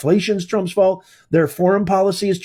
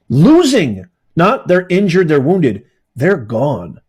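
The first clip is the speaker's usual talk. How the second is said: outraged shout; 2 semitones lower, 5 dB louder than usual. Real, not acted. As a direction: bark the word out, loud. Outraged at migrant killings.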